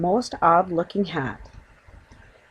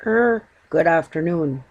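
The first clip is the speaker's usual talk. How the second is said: doubtful; 3 dB louder than usual. Acted. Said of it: "Mister Brown replied doubtfully".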